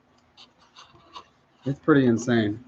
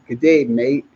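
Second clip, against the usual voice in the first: a second light go at an Australian accent; hammy Australian greeting, rising at the end. Shown as a demonstration. Jet ski vlogger to viewers, bad mock Australian accent. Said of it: "trying to sound like I'm from Australia".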